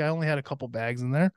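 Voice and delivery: ordinary talk, nothing marked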